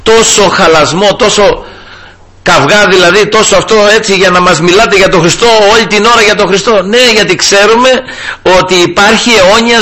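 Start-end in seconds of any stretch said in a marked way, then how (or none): 0.0-6.8 high, mocking voice of an unbeliever; mocking skeptic. Preacher mimicking people who ask why he talks of Christ. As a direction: throw their objection back, pitched up. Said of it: "Λέει".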